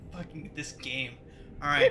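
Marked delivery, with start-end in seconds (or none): 1.6-1.9 excited yelp. Real, not acted. Excited outburst at tickling.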